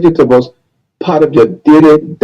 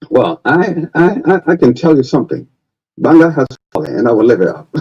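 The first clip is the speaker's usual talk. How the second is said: Charles Taylor impression; 3 dB quieter than usual. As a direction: answer the interviewer as the ex-president, hesitant then grand. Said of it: "Mister Taylor, President Taylor?".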